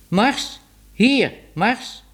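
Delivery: high, rising call to the dog. A narrator's reading. Man calls his dog Mars again, calling out. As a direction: shout the name up and out.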